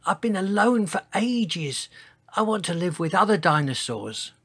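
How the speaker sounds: high, small pleading voice; begging. A narrator's reading. Tiny-voiced giant asks to stay, begging. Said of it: "begged Sizo".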